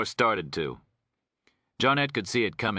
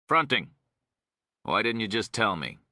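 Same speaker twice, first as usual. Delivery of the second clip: snapped; 3 semitones higher than usual. Acted. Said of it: "Geneva snapped".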